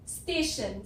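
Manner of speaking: स्टेशन said as ste-shun, shun ending clear; model pronunciation. Shown as a demonstration. Teacher modelling स्टेशन for the tion sound, clearly. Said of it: "ये समझाने के लिए मैंने ये word लिया है".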